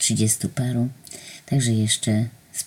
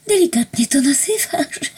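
much higher, laughing reply; chuckling. A narrator's reading. Angel teasing narrator about her ignorance. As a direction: giggle through the words. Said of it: "zachichotał".

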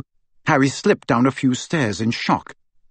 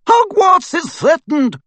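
much higher, louder, slow battle cry; rallying shout; 5 dB louder, slower than usual. A narrator's reading. McGonagall shouting to the statues, rallying. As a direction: sound the alarm for the whole castle. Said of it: "shouted Professor McGonagall".

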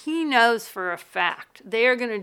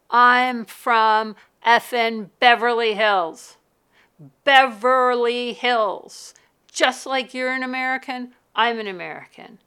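furious outburst; 3 semitones higher, 9 dB louder than usual. Retold or imitated. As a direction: shout it back at him, offended. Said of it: "absolutely loses it".

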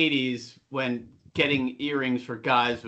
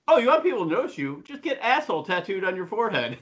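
dad's sarcastic put-down; 6 semitones higher, faster than usual. Retold or imitated. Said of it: "he goes".

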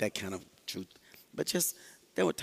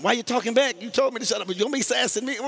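higher, sharp mock scolding; mock-scold a sassy kid, higher; scolding parent; 10 semitones higher, 5 dB louder, faster than usual. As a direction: parent fussing at a back-talking child, hammed-up. Acted parent scolding child.

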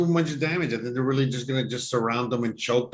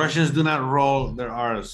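put-on Russian accent; mock Russian with unrolled R's. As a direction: answer as a stock Russian. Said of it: "do a Russian impression".

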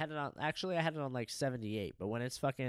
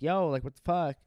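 indignant protest; 5 semitones higher, 9 dB louder than usual. Retold or imitated. Confronting housekeeper who opened door.

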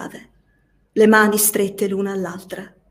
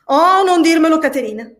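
raised, pleading cry, louder and higher; cried out; 5 semitones higher, 5 dB louder than usual. A narrator's reading. Nelly to Catherine, begging her not to tell it, loud cry. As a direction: cry out to stop her speaking.

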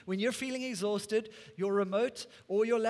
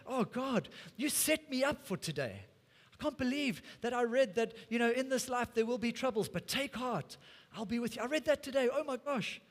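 higher-pitched, acted-out realisation; amazed prayer; 4 semitones higher than usual. Believer realising God had prepared them for today, amazed. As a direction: marvel to God in a raised pitch.

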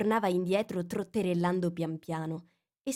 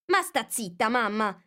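snappy, louder retort; a bit peevish; 4 semitones higher, 4 dB louder than usual. A narrator's reading. Young crab snapping at her mother. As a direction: brush off a nagging mother. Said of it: "un po' stizzita".

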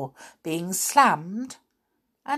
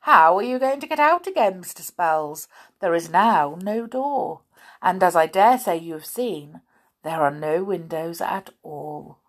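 sly giant; 4 dB louder than usual. Acted. Cross-eyed giant gloating as the visitors arrive. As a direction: crow over the trapped visitors. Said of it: "he said".

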